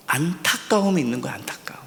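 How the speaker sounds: sudden hushed whisper. Real, not acted. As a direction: drop the voice to a breath for effect. Preacher drops into emphatic whisper.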